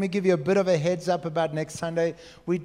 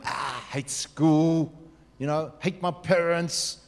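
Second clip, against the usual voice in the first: mock negative teen; much slower than usual. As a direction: play the whiny negative kid, slow and sulky. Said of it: "if you're a negative person".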